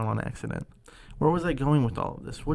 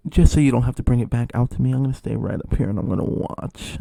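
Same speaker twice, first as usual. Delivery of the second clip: adamant customer, loud at the start; 7 dB louder than usual. Retold or imitated. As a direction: insist firmly, imitating the customer. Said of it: "she was adamant".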